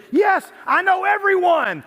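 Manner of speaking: put-on high, slow, eager girl voice; excited girl. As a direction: imitate the teen fan gushing. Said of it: "She said".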